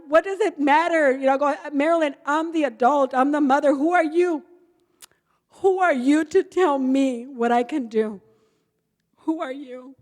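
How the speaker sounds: retold defiant yell, mother to daughter; angry retort. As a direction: snap back at your daughter. Mother yelling back at daughter.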